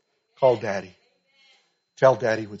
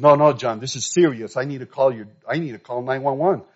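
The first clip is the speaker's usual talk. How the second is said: urgent insisting; 7 dB louder than usual. Retold or imitated. Coach urgently insisting on ambulance.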